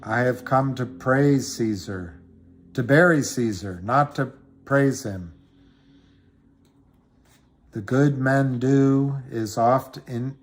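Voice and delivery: lightly recited Julius Caesar lines; Shakespeare recitation. Acted. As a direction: declaim it like a funeral speech. Recites Mark Antony speech.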